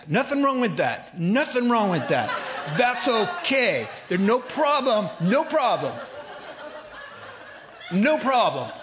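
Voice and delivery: hammed-up panicky backpedal, nearly shouting; flustered shout. Man nervously backpedals, retold.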